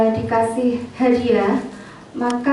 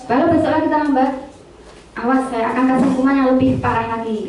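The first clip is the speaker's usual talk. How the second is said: quick, mildly raised threatening teacher; stern threat; much faster than usual. Shown as a demonstration. Teacher warning a late student, quick and mildly stern. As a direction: rattle off the warning fast and firm. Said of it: "intonasinya keras".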